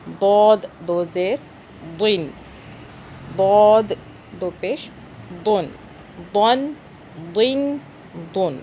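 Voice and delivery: دود and دن with a heavy, rounded D; thick dwad. Shown as a demonstration. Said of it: "دود کو موٹا پڑھنا ہے". (دود اور دن میں موٹی آواز)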